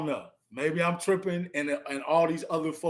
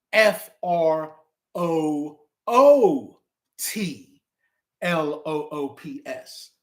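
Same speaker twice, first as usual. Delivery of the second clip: slow spelling; 3 semitones lower, slower than usual. Shown as a demonstration. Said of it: "an alternate".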